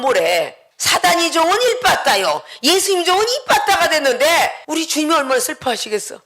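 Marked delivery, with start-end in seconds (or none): none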